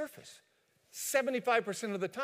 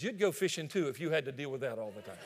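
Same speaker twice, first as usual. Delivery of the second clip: defensive husband. Acted. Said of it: "And John speaks up".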